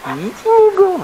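dog talk. Real, not acted. Talking to the dog at bath.

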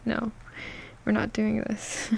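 ordinary talk

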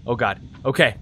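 hushed and tense; whispering while hiding. Real, not acted. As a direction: breathe it out quietly. Sneaking past blind monster.

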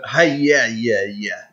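half-hearted battle cry, trailing away; feeble war cry. Shown as a demonstration. Gamer admitting they can't scream it properly, weak war cry. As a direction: try the yell without the vocal cords for it. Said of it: "I just don't have the".

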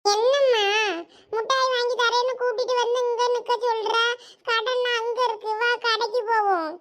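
put-on high-pitched child pestering mother; small child's high, pleading voice; complaining child. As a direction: whine like a kid promised sweets.

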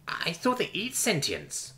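hushed, drawn-out misgiving; muttered. A narrator's reading. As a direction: mutter it warily from the back. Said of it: "one of them muttered".

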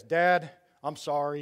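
a hint of a gruff teen apology; teen son apologizing. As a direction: play a fourteen-year-old saying sorry, lightly voiced. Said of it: "He'll talk like this".

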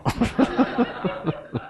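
a soft unvoiced laugh that falls away; breathy laugh. Real, not acted. Preacher chuckling at the husband joke, soft falling laugh. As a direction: let a breathy chuckle fall off.

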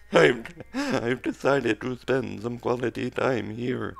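breathy put-on robot voice; robot voice, a bit out of breath. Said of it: "I hope that's an okay robot voice".

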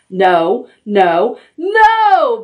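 building to a loud, high roar on the last no; roaring bear. Acted. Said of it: "Bear roared".

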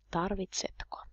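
a soft breathy whisper of Tarvitsetko; whispered repeat. Shown as a demonstration. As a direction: whisper the word Tarvitsetko back, barely audible. Teacher repeats question twice.

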